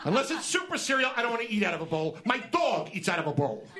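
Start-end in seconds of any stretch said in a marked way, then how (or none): 0.0-0.8 exasperated higher-pitched griping; incredulous food complaint; comic rant. Acted. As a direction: rant like a grumpy old man. Comic rant about bowls.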